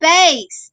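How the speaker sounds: bass said with a long a, like "base". Shown as a demonstration. Teacher giving the answer to students, bass like "base". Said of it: "So you have bass and bass".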